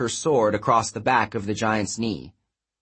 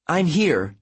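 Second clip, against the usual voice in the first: higher, reassuring promise; 6 semitones higher than usual. A narrator's reading. Heroine promising her frightened friend she's there, reassuring. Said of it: "filling her voice with reassurance".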